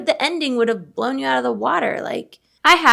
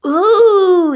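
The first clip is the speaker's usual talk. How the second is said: breathy whispered ooh; real hushed thrill at a hot take; intrigued ooh; 9 semitones higher, 8 dB louder than usual. Real, not acted. Reacting to a spicy opinion.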